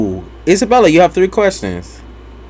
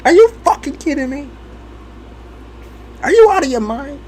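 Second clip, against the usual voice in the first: higher, slowed grandma scold; mock grandma scold; 9 semitones higher than usual. Grandma yelling at her grandchild, hammed up. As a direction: ham up an outraged granny. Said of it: "sometimes she'd be like".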